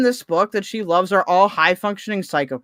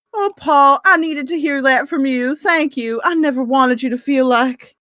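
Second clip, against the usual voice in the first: lightly voiced romance heroine, breathless and grateful; Tia's voice; 4 semitones higher than usual. Reading Tia's grateful reply to Paul, lightly voiced higher. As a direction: read Tia's lines a little higher and brighter. Reads Tia's dialogue aloud.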